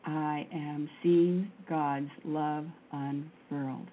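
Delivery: drawn-out, very slow prayerful chant; slow mantra. Acted. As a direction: stretch each word like a meditation.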